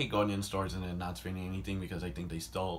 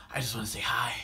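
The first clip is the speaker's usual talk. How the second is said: whispered hi; faster than usual. Retold or imitated. Porcupine whispering shyly after catching up. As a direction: say it timidly, barely audible. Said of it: "He's like".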